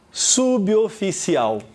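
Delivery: Suboficial slowly drawn out as su-bi-o-fi-ci-al; deliberate, stretched Suboficial; syllable demonstration. Shown as a demonstration. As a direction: sound out Suboficial slowly, "sub" kept apart. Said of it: "a divisão silábica é essa daqui".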